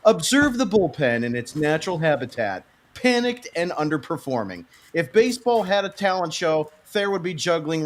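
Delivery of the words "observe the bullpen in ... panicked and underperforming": hushed, awed wildlife narrator; nature documentary. Retold or imitated. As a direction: narrate the bullpen like wild animals. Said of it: "like he's narrating a nature documentary".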